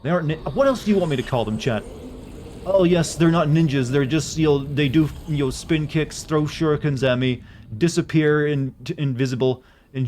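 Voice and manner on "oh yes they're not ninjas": sarcastic. Pretend. Mocking chat's correction.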